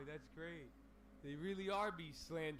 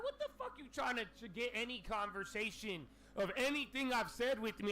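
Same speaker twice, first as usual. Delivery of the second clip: retold outburst; 6 semitones higher, 5 dB louder than usual. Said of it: "And I'm like".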